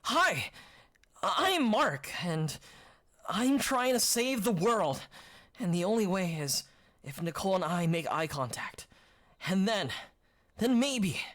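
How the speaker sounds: a hint of a wide-eyed anime lead; eager anime hero. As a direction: play it like a plucky shonen boy introducing himself. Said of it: "Can we make him Deku instead?".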